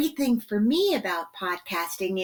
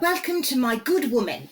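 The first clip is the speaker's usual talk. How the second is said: put-on British welcome; British accent; 3 semitones higher than usual. Shown as a demonstration. Guest showing host how to say the show's welcome, British accent. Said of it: "say it in a British accent".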